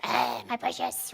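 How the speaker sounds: slow, creaturely covetous croon; Gollum. Acted. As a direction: impersonate a creature clutching its treasure.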